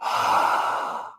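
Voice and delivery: throaty open-mouthed haa exhale; open-mouth throat breath. Shown as a demonstration. Teacher showing throat muscles to class: open-mouthed haa. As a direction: fog the mirror with an open mouth. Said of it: "when you make that sound with your throat".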